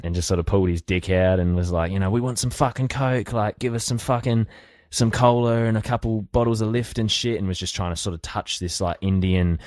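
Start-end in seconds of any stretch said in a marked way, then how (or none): 2.1-7.4 higher, rowdy mock voice of a drunk mate; drunk mate's demand. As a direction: ham up a drunk mate ordering booze.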